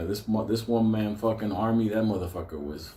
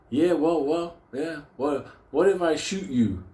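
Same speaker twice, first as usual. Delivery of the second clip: mock threat; 6 semitones higher than usual. Guy threatening Pat, acted quote.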